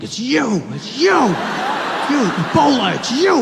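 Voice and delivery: high loud frantic yelling; panicked accusing yell. Retold or imitated. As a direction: shriek the accusation. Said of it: "He was like".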